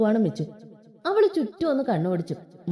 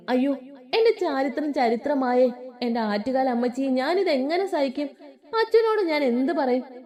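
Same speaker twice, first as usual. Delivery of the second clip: mock wailing; 3 semitones higher than usual. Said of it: "കീറാൻ തുടങ്ങി".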